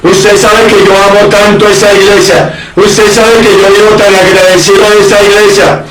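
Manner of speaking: lightly voiced insincere churchgoer; fawning excuse. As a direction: play the flatterer buttering up the pastor. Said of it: "Muchos cristianos se justifican".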